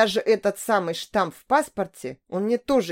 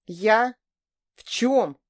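taken aback; 2 semitones higher, much slower than usual. A narrator's reading. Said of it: "оторопел Борис".

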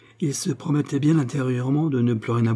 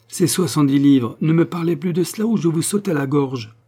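furious threat; 5 semitones higher than usual. Acted. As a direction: spit it out as if about to attack. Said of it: "s'élança vers lui comme pour l'attaquer".

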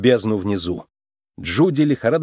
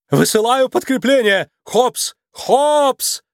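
alarmed outcry; 11 semitones higher, slower than usual. A narrator's reading. Clawhauser hears growling on the radio and cries out in alarm. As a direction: cry out her name in alarm. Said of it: "вскрикнул Коктяузер".

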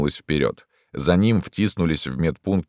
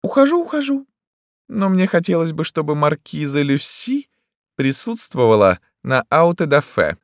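very high theatrical sing-song; affected emperor, placating; 12 semitones higher, 4 dB louder than usual. A narrator's reading. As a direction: back off in a fluting, airy voice. Emperor figure retreating.

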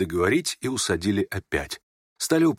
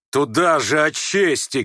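raised, drawn-out spiteful jab; spiteful cry; 5 semitones higher, 3 dB louder, slower than usual. Acted. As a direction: throw it out angrily, stretching the words. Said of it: "крикнул он злобно". (злобный выкрик)

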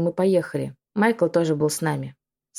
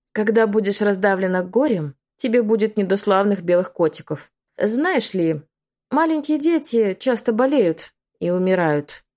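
a mild witch's threat, stretched slowly; menacing drawl. Acted. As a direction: draw it out to frighten the mother. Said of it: "угрожающе протянула она".

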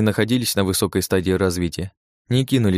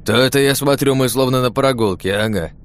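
chuckling; 5 semitones higher, 4 dB louder than usual. Acted. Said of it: "хохотнул Цандра".

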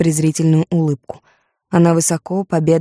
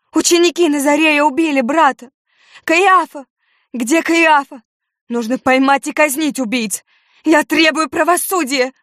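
wailing scream; 10 semitones higher than usual. A narrator's reading. Judith in her father's arms, wailing hysterically. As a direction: howl it in grief and fury. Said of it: "вопила она".

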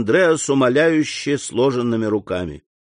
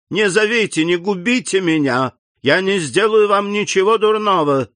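higher, pleading, breathless fear; испуганная мольба; 7 semitones higher than usual. A narrator's reading. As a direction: beg them not to call for help. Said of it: "бледный, растерянный". (испуганная мольба, голос выше)

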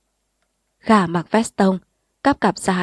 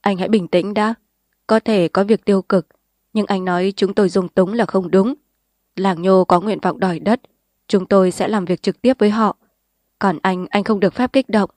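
calm. Acted. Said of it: "Bí thư nhút điềm đạm".

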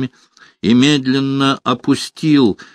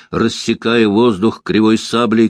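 ordinary delivery

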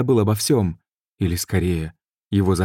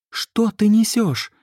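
much higher, slow, strained yell; shouting back; slower than usual. A narrator's reading. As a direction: scream it back at him. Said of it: "закричала в ответ Габриэль".

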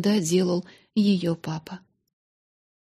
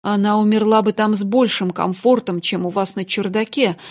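indignant; 5 dB louder than usual. Acted. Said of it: "возмутили мистера Кэррисфарда".

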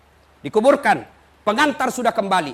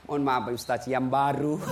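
sheepish confession; 10 semitones lower, 5 dB quieter than usual. Retold or imitated. Widower sheepishly admits new wife.

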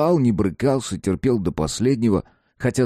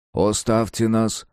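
priest's request; slower than usual. Acted. Priest asks others to leave.

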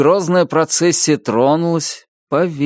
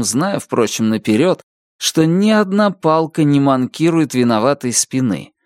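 plain reading voice

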